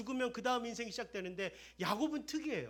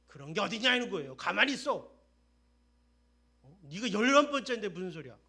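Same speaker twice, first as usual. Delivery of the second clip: scolding father; 11 dB louder than usual. Acted. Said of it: "꾸짖어".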